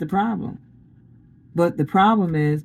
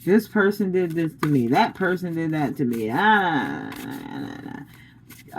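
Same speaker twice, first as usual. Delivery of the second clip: mock grievance whining; 4 semitones lower, 4 dB quieter than usual. Mimicking someone dwelling on grievances.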